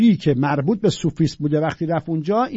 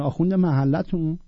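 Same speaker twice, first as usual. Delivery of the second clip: ordinary delivery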